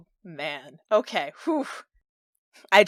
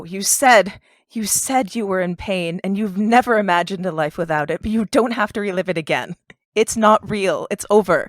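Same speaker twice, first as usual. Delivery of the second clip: louder, pressing words of comfort; urgent pleading; 7 dB louder than usual. Acted. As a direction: push through to him urgently. Player urges Fenris, loud.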